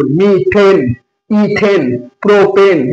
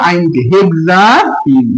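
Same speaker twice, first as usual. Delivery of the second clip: slow demo; 3 semitones lower, much slower than usual. Shown as a demonstration. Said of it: "দেখছো?".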